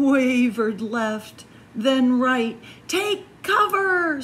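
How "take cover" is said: high, loud alarm; yelled. Acted. Squirrel warning the animals, high and loud. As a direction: shout them to shelter. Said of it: "Squirrel yelled".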